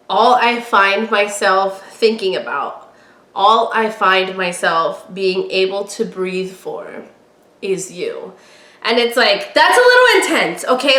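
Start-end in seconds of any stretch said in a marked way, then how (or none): 0.1-8.3 swooning quote reading. Shown as a demonstration. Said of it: "another one of my favorites is". 9.5-11.0 mock shocked. Real, not acted. Reacting to intense line.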